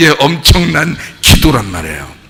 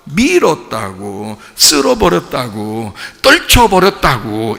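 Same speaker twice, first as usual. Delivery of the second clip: deliberate emphasis; 4 semitones lower, slower than usual. Real, not acted. Slow emphatic explanation of word.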